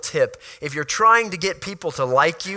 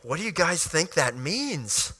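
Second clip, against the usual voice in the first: softer, coyly innocent question with a lilt up on "means"; 5 dB quieter than usual. Retold or imitated. Joseph teasing his brothers about his dream, coyly. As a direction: feign innocence while needling them, lightly. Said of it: "kind of coyly saying".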